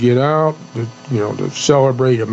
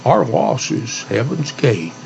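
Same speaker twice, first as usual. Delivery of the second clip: cowboy poetry. Shown as a demonstration. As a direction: recite it like a eulogy poem. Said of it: "I'm gonna do a cowboy poem".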